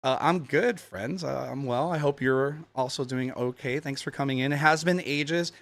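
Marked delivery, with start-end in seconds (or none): 1.9-5.5 talking while chewing gum; words around a wad of gum. Real, not acted. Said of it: "Sorry, I have gum".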